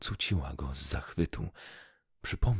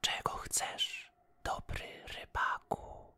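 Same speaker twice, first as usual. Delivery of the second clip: magical fish; 4 dB quieter than usual. A narrator's reading. Magic golden fish speaks.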